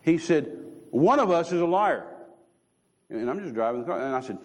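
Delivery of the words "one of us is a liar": stern, weighty divine rebuke; a displeased God rebukes him; displeased Lord. Retold or imitated. God rebukes the driver, stern and displeased. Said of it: "in a not very happy tone of voice".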